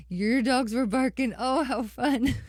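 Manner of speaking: light up with real excitement; excited delight. Real, not acted. Singer hears listener's dogs barked along, excited delight. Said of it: "Oh, I'm so excited".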